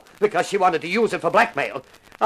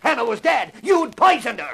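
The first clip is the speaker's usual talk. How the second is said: shouted accusation; 4 semitones higher than usual. Acted. Lacey accuses Malden of murder.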